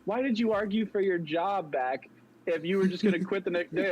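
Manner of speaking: high, lightly voiced exasperated boss; a hint of a baffled manager; mock boss. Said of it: "She's like".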